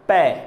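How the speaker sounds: ਪੈ said alone and slowly, lips pressed shut then opened with a clear p; isolated syllable demo. Shown as a demonstration. Teacher showing children how to say ਪੈ, crisp demo. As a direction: sound out ਪੈ crisply so the lips visibly part. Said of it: "ਦੁਬਾਰਾ ਬੋਲ ਕੇ ਵੇਖਦੇ ਹਾਂ".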